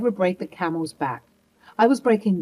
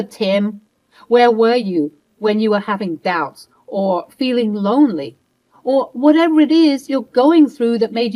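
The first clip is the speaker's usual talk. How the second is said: louder, scolding and bitter; angry lecture; 5 dB louder than usual. Acted. Wife berating husband for not talking, angry. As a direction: berate him without pause.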